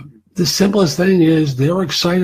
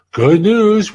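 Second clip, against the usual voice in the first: mock excited recruiter; 7 semitones higher, 4 dB louder than usual. Voicing recruiter's upbeat message.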